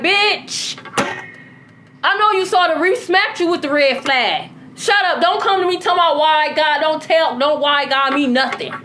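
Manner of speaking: lightly acted tough-love rebuke; blunt scolding ancestors. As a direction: imitate no-nonsense elders scolding a hard-headed child. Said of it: "my ancestors talk to me the way they do".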